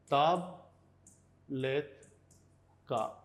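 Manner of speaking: ताबलेत का very slow, taab, let, kaa; syllable by syllable. Shown as a demonstration. Teacher writes out the word for tablet, ताबलेत का in slow separate syllables. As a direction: dictate ताबलेत का with a pause after each syllable. Spelling out word while writing.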